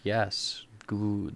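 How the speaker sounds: low, soft, approving villain; satisfied villain. Acted. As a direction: quietly savour it as the nodding Master. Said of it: "the Master's sitting there nodding".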